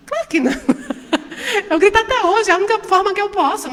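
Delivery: high laugh spilling into the words. Real, not acted. Speaker admitting to the audience she still yells, laughing. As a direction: laugh at yourself as you confess.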